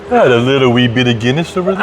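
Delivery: half-hearted Irish lilt, joking about the trip; bad Irish accent. Back from Ireland, host jokes in a terrible Irish accent. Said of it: "That's a terrible accent".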